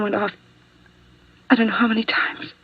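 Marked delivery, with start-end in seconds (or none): 1.5-2.5 breathless, stunned whisper; shaken whisper. Acted. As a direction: let the memory steal your voice away. Nurse recalling the fatal shooting.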